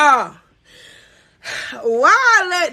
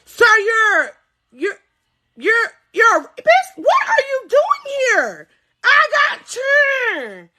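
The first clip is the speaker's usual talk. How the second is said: shocked yell; 6 semitones higher, slower than usual. Real, not acted. Reading his charges and shouting at her ex in disbelief. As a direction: scream at him in disbelief.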